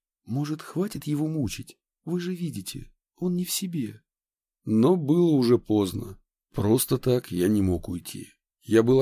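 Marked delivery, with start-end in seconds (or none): 0.2-4.0 soft, lowered voice; quiet. Acted. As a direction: say it quietly, aside. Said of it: "тихо сказал главврач".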